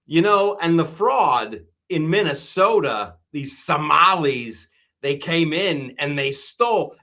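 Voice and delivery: a light imitation of a famous halting actor doing the president; lightly voiced celebrity impression of a politician; Christopher Walken Trump. Comedian mimicking the president's speech, lightly imitating a famous actor's cadence. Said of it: "I'm gonna do my Christopher Walken Trump".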